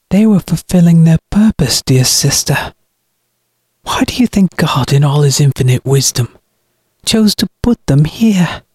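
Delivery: high-pitched, sanctimonious taunt; mocking. A narrator's reading. Brother taunts his sister trapped below, mocking. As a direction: taunt her with mock piety. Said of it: "Miles mocked".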